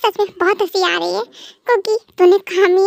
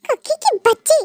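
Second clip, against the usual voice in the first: higher, exasperated scolding; angry husband; 4 semitones higher than usual. Acted. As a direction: snap at her after getting soaked. Husband scolds soaked by water. (पानी फेंकने पर चिढ़कर डांटता पति)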